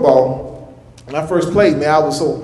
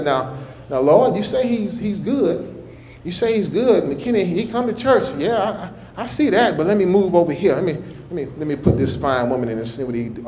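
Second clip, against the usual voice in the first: voicing the devil; 6 dB quieter than usual. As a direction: play the devil plotting quietly. Devil voiced scheming against God.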